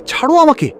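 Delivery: let go of me. Acted. Man telling clinging girl to let go, high protest. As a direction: shake her off.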